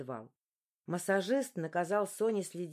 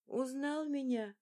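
1 quiet mother; 7 semitones higher, slower than usual. A narrator's reading. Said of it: "тихо спросила Ремей".

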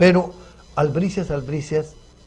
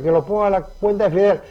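higher, lightly put-on voice; imitating Fidel's followers; 5 semitones higher than usual. Beardless guest copies the diners to the maître d', light imitation. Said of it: "agarrándome la quijada".

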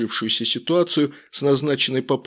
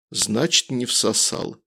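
feigned disappointment; 2 semitones lower, slower than usual. Acted. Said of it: "сделанным огорчением в голосе".

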